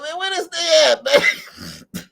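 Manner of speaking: high, loud shout across the house; mock yell. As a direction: call out loud like Obama searching for him. Obama voiced looking for chef.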